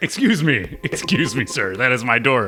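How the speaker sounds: put-on indignant, offended knight voice. Voicing the angry knight that an enemy snuck past. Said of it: "he's like".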